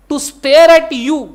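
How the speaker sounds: very slow, word by word legal rule; slow dictation. Shown as a demonstration. Teacher dictating the law to students, very slow. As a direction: dictate it slowly for notes.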